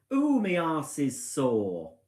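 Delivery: drawn-out, slow moan; loud complaint. Retold or imitated. Wife imitating husband leaving caravan, slow loud moan. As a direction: moan it slowly like a sore husband. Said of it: "says quite loudly".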